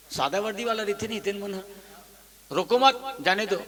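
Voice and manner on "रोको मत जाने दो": रोको मत as one unit, then जाने दो; pause after मत. Shown as a demonstration. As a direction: break after मत before जाने दो. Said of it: "अब अल्प विराम ला मत में लेक लगा देता हूँ".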